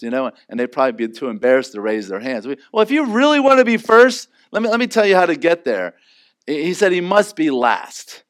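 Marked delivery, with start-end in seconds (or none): 2.7-5.9 Jesus addressing disciples. Acted. Jesus voiced teaching disciples.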